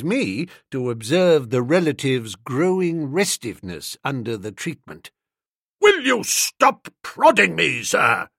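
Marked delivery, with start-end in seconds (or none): 5.8-8.3 slow, higher and louder, exasperated; irritated cry. Acted. Uncle Percy snapping at Boko for prodding him, indignant. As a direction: bark it out at the man poking your chest. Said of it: "he cried".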